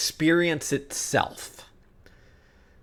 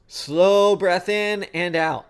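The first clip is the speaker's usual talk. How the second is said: drawn-out, higher coaching cue; slow breathing cue; 4 semitones higher, slower than usual. Acted. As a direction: stretch it out to pace someone's breath. Demonstrates a calming breathing cue.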